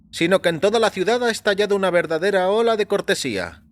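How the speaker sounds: lightly voiced doctor musing on the murders. A narrator's reading. A doctor tells his patient about the public's reaction, in a lifted voice.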